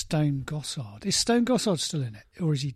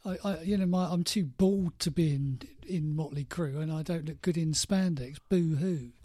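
fake crying. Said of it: "sitting there during hair metal going".

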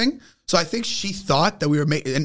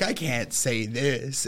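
quoted refusal; 4 semitones lower, 7 dB quieter, much slower than usual. Retold or imitated. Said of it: "he was like".

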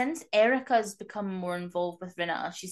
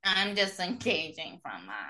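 Meredith; slower than usual. Retold or imitated. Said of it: "her favourite thing to say is".

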